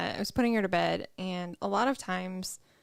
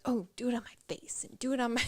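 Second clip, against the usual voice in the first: put-on whispered kid request; 4 semitones higher, faster than usual. Mom whispering her daughter's bedtime request. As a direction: breathe it out like a drowsy kid.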